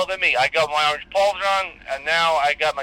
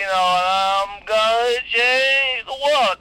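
slow, drawn-out boast; grandiose; 5 semitones higher, much slower than usual. Acted. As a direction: savour every word like a big promise. Grand boast about future.

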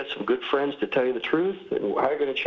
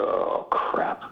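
resigned grumble. Retold or imitated. Acts out his weary giving in.

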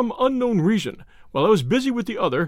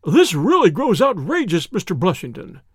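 exasperated cry; 4 dB louder than usual. Acted. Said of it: "cried Doctor Trevelyan".

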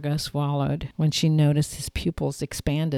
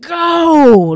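high, loud squealed go; 12 semitones higher, 13 dB louder than usual. Acted. Woman urges herself on in the race, high squeal. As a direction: squeal it out as you launch. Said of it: "Margot squealed".

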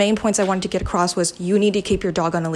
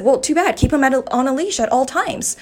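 retold angry retort; 5 semitones higher than usual. Retelling her comeback to the dog owner, indignant. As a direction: re-enact shutting the neighbor down.

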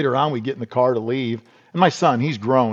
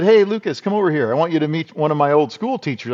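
calling out; 4 semitones higher than usual. Retold or imitated. Calling son over at funeral.

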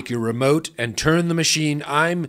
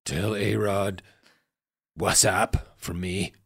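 mock last words; 3 semitones lower, 7 dB quieter than usual. Mock farewell, fearing death.

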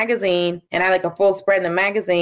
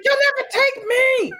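playful challenge. Retold or imitated. Mock fight challenge.

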